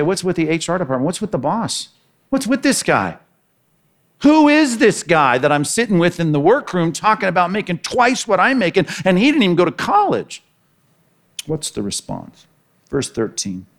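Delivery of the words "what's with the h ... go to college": grumbling complaint. Acted. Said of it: "You're gonna grumble against the master".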